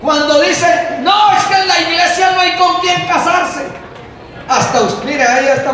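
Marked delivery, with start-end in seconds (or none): 1.0-3.7 mock whiny complaint. Preacher mimics complaining youths.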